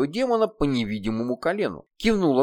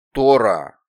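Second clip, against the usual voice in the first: sharp hiss of a name; 3 semitones lower, 7 dB louder than usual. Acted. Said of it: "Едва различимое шипение".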